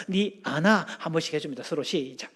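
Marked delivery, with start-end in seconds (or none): 0.1-0.9 demonstrated Gyeongsang-dialect question; Gyeongsang style. Shown as a demonstration. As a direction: say it with Gyeongsang intonation. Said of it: "경상도 스타일로".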